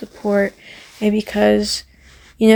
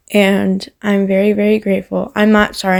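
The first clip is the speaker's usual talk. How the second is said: shaky voice. Real, not acted. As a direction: voice trembling with adrenaline. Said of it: "I'm getting shaky voice".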